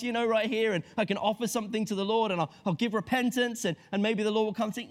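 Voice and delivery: lightly hammed-up repentant prophet; mock pious Jonah. Jonah to sailors, mock earnest and eager.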